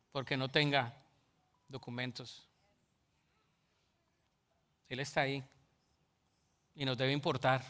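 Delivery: soft, low, hushed preaching; tender sermon. Real, not acted. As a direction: plead gently and earnestly. Softer pleading preaching. (predicación suave, grave y sentida)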